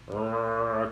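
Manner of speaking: normal talking voice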